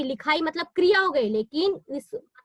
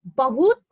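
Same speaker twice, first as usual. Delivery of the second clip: बहुत said louder on its own, set apart by pauses; stress on बहुत; 6 dB louder, slower than usual. Shown as a demonstration. Teacher showing students the added word, stressing बहुत. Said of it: "एक और शब्द लग जाता है".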